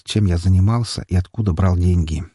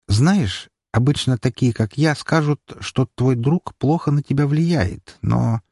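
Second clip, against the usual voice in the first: lightly voiced sister, pitched higher; careful sisterly talk in a higher voice; concerned sister; 4 semitones higher, slower than usual. Sister starts on her brother's friend, careful and higher-pitched.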